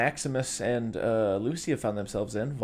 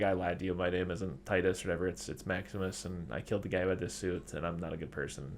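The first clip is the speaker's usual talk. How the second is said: quiet confession; 4 semitones lower, 7 dB quieter than usual. Retold or imitated. Maximus confessing, retold.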